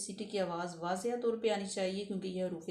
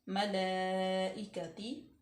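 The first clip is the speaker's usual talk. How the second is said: drawn-out मलाइकती; slow recitation; much slower than usual. Shown as a demonstration. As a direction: stretch it slowly. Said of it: "recitation demo".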